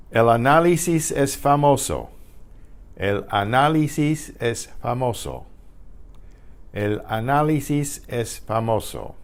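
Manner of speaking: El análisis es famoso with stress on NA and MO; teacher reads El análisis es famoso, falling at the end; Spanish sentence demo. Shown as a demonstration. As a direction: model El análisis es famoso carefully for learners. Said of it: "Here's a whole sentence".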